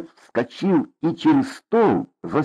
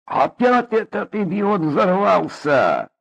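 exasperated; 8 semitones higher, slower than usual. Acted. Exasperated at neighbour.

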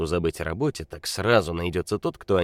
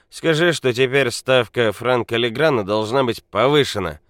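put-on loud angry drunk; 6 semitones higher, 7 dB louder than usual. A narrator's reading. Drunk Nikola rages.

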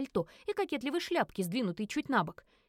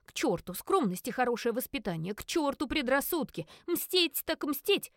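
defiant; 2 semitones higher than usual. Acted. Psyching herself up for revenge.

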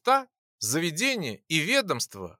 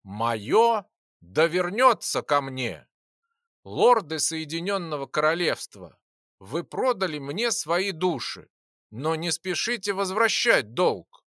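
eldritch horror. Acted. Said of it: "шелестящий, пробирающий до самых костей нечеловеческий голос".

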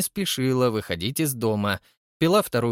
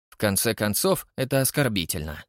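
cold. Acted. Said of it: "проронил Холли холодно".

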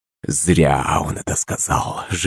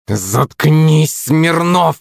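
hissed; 8 semitones higher, much slower than usual. Acted. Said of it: "зашипел на меня Никольский".

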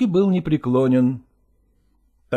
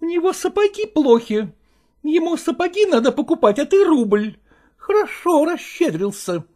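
high, sarcastic wife's voice; venomous wife; 9 semitones higher than usual. Acted. Wife mocking her husband's rouble gift, high and sarcastic. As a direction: sneer at his stinginess. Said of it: "язвительно произнесла Копровская".

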